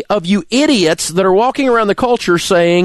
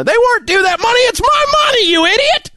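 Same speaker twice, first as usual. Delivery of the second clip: furious shout; 14 semitones higher, faster than usual. Real, not acted. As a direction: blast it at the idiots on TV. Furious rant about taxes.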